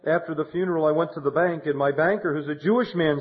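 lightly voiced widow recounting her story; widow's voice. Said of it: "She said".

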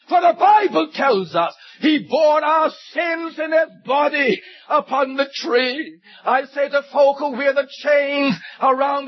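emphatic sermon delivery, key words punched; impassioned preaching. Real, not acted. Preacher urging listeners to remember the cross, impassioned preaching. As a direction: preach it out with rising fervour.

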